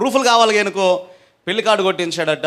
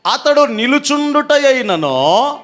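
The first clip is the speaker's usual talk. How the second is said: scripture declamation; 6 semitones higher, slower than usual. Acted.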